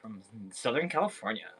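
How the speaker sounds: mock Californian valley voice, You guys right now; playing a Californian girl for laughs; American accent. Irish seller mocking a California accent on stream. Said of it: "how's my American accent?".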